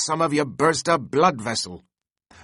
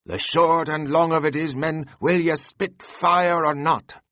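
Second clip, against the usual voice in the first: Stubb rallying the crew; 5 semitones higher than usual. A narrator's reading. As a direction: whip the crew on with hearty shouts. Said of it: "cried Stubb to his crew".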